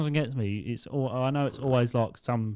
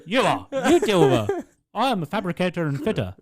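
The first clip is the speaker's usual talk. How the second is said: much higher, louder fed-up tirade; mock rant; 10 semitones higher, 4 dB louder than usual. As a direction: rant at the office staff. Ranting at office colleague.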